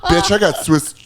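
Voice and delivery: drawn-out sassy lament. Acted. Bathhouse legend bemoaning his drained serotonin, sassy. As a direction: start high, stretch the punchline with sass. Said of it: "He's still sassy".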